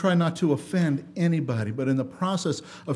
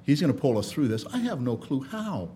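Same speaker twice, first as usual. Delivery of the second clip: quiet trust; 6 semitones lower, 7 dB quieter than usual. Retold or imitated. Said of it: "all you can do is say".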